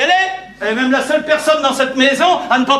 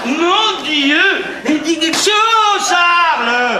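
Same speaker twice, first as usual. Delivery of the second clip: dismayed outburst; 2 semitones higher, slower than usual. Acted. Husband to his brother as the lie spreads, dismayed outburst. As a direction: cry out in mock-tragic dismay.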